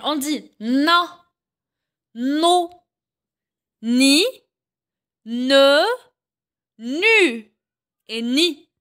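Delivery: chaque syllabe en « j » détachée avec soin; syllabes articulées. Shown as a demonstration. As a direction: montre la syllabe, puis une pause. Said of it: "Avec N". (syllabes en « j » dictées au professeur)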